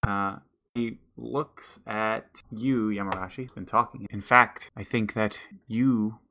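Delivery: a hint of a measured forest elder; wise forest elder.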